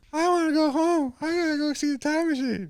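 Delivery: very high, giggling through a dumb guy's whine; a silly high imitation cracking up with laughter; laughing mock dumb voice. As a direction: squeak it out while laughing.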